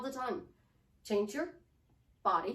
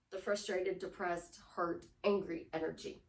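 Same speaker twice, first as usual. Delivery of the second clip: downcast energy; 4 semitones lower than usual. Shown as a demonstration. Coach contrasting the bad energy, downcast. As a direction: let the energy sink on each word.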